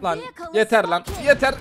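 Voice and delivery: sharp frustrated yell; angry cry of yeter; fed up yell. Real, not acted. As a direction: shout out of exasperation at being shot. Taking fire.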